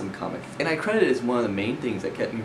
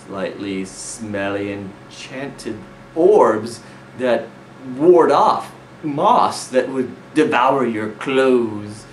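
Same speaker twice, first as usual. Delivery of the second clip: slow, loud mock grandeur; mock dramatic; 2 semitones higher, 6 dB louder, much slower than usual. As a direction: build it up slowly and loudly. Mock grand build-up of lame loot.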